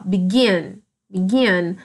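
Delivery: "begin" stressed on the final "gin"; stress on second syllable. Shown as a demonstration. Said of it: "A minha sílaba mais forte é o gin".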